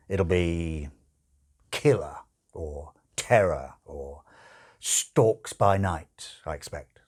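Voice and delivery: low, slow, relishing demon voice; Crowley, relishing menace. Acted. Demon imagining the hellhound's name, low and slow. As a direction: savour the names like threats, slowly.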